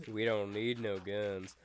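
slow, lightly voiced country hunter; unhurried backwoods reply; hunter figure. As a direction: answer slowly as a confident hunting dad. Hunter answers the boy.

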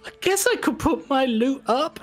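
high, giving in voice; tempted girl. Acted. Girl deciding to stake her loot, high and eager. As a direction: talk yourself into the bet. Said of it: "she's like".

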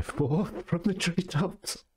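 slow reading that rises into a high giggle; corpsing mid-narration; breaking into laughter. Real, not acted. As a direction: start composed, lose it to laughter.

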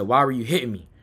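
low, subdued asking; calmed-down question, retold. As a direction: ask softly after being soothed. Same question after being calmed.

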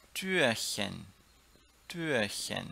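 "Türchen" in two clear parts, soft hissed ch; soft Chen diminutive. Shown as a demonstration. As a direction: articulate "Türchen" with an airy "chen" ending. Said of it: "eu posso falar Chen". ("Türchen" com Chen suave e bem separado)

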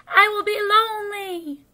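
high, loud, plaintive cry; shouted wail. A narrator's reading. Toad alone in the dark, wailing shout. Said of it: "he shouted".

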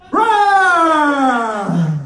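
roar, half laughing; laughing lion roar. Pretend. Comic playing a roaring lion.

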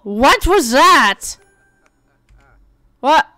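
drawn-out surprised what; startled question. Real, not acted. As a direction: react to a strange sound, stretched out. Surprised by baby's giggle.

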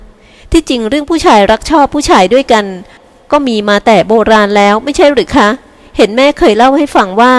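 a hint of a polite young woman; polite granddaughter. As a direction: gently reason with grandma. Elder sister explains to grandma.

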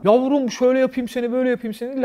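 mock leering catcall; a touch of a creepy street harasser; imitating a catcaller. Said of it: "laf atmaya başlıyorlar".

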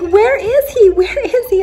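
high, loud retold questioning; imitated upset demand. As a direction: act out her urgent asking, high and loud. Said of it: "she started crying really, really hard".

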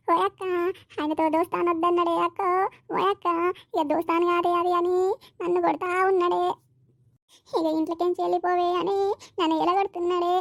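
keen her troubles out in a lament; wailing lament. Acted. Wife wails to the neighbour about her beating.

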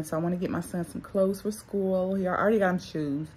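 speech slurred by dental retainers; talking with retainers in. Real, not acted. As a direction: shape words around retainers in the mouth. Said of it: "why I'm talking like this".

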